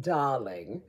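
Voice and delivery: lingering English "darling", pitched low; playful put-on English accent. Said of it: "like that with an English accent".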